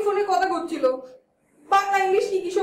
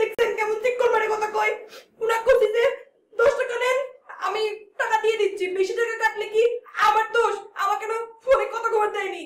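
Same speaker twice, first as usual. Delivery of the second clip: whimpering, whiny, sniveling tearful voice; 3 semitones higher than usual. In a family squabble, one person complains to another, whimpering while crying. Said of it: "ওরকম ফ্যাচ ফ্যাচ করে কাঁদছিস কেন?".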